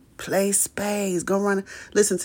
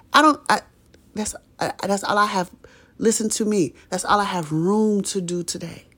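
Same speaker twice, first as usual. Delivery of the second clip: holding back tears; 3 semitones higher than usual. Real, not acted. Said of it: "I'm trying not to cry".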